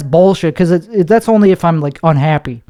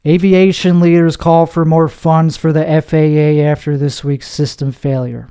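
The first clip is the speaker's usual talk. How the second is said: deadpan news read. Shown as a demonstration. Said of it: "that's deadpan".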